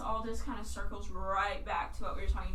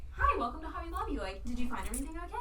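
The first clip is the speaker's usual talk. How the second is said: high, quick, sweet cashier greeting; bright retail welcome, sped up; customer service voice; 6 semitones higher, faster than usual. Shown as a demonstration. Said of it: "I'm not using my customer voice, but I will whip it out".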